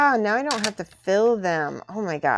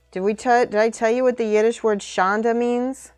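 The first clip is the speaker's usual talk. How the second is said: louder, higher eager question; bursting to share a fun word; excited; 5 semitones higher, 7 dB louder than usual. Real, not acted. Eager question about Yiddish word.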